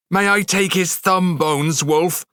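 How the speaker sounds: put-on high, eager girl's call; eager cry. A narrator's reading. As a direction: ask it with bright eagerness. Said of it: "Thorn cried".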